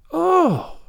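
high, drawn-out "oh"; long-breathed amazement. Acted. Anne pities Marilla's lack of imagination, amazed. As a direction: let out a long, astonished oh. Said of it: "Anne drew a long breath".

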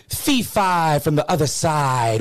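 slow, drawn-out slam-poet delivery; spoken-word poetry. Shown as a demonstration. Explaining poetry slam to the host, spoken-word style. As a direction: stretch it out rhythmically like a slam poet. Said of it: "It sounds like this. They're like".

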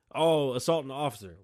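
loud, mocking accusation; mock cop. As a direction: sneer it like a cop framing you. Acted cop during traffic stop.

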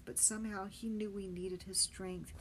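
ordinary delivery

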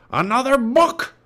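high, loud pirate captain roar. A narrator's reading. Captain Bones finding a book, outraged roar. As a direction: explode in disgust like a pirate. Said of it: "roared Captain Bones".

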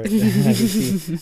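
slow, high laughing words. Real, not acted. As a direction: laugh it out shyly. Embarrassed to name a friend.

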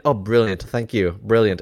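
mock British gratitude; breezy thanks in a lightly imitated British accent; Hugh Grant. Blagger thanking the ticket person, lightly mocked British accent. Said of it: "Hugh Granting, ineffable charming his way".

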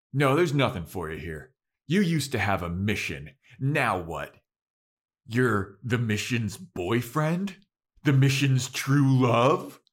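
loud retold scolding, slowing at the end; a loud, lecturing put-down. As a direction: tear into him like a stern mentor. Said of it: "gives him the scolding of a lifetime".

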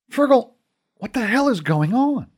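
alarmed shout. Acted. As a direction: demand answers in a panic. Conor shouts at Fergal.

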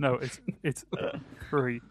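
"free" meant as three, th said as f. Shown as a demonstration. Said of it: "due to my T H fronting issue".

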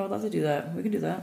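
hushed, sneaky whisper. Real, not acted. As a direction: whisper it like a secret plan. Conspiratorial aside about donuts.

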